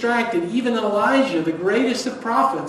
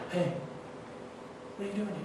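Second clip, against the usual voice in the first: intimate whisper, much softer; 14 dB quieter, much faster than usual. Retold or imitated. God whispering to Elijah in the wilderness, soft whisper. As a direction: breathe it like a secret in his ear. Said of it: "The Lord just whispers to Elijah".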